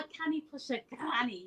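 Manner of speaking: Scottish lilt on a tongue-twister; Scottish accent. Shown as a demonstration. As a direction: demonstrate a Scottish phrase. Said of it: "you want to do a Scottish accent".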